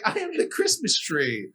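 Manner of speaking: lightly acted grand announcement; Christmas tree man. Costumed man addressing train passengers, lightly mock-theatrical proclamation. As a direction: proclaim it like an amateur costumed performer. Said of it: "he's like".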